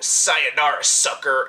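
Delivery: loud, mock-cocky movie one-liner; cocky pilot. Mimicking a pilot's taunt at Godzilla, cocky and loud. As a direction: throw out a cheesy, cocky taunt. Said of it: "gets a little bit cocky".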